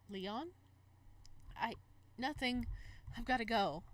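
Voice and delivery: lively romance read-aloud; story narration. Acted. Gamer reading a romance game's text aloud, narration. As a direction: narrate the flustered scene. Reads visual novel aloud.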